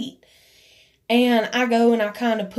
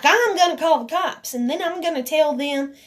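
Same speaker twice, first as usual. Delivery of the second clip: higher-pitched mocking imitation; mimicked threat; 5 semitones higher than usual. Quoting her threat to call the cops, mockingly.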